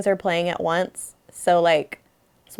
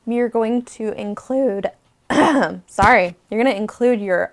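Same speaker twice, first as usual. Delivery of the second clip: talking round a piece of gum; hiding gum in the mouth; chewing gum. Real, not acted. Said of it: "I got gum in my mouth".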